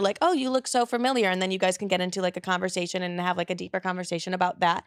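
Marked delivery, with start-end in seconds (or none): 0.2-1.3 flirty opener. Shown as a demonstration. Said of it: "But I do like a good".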